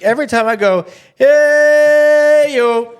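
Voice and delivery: high hammed-up impression of a TV host; a broadcaster hamming it up, mocked high; imitating Pat McAfee. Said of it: "He's like".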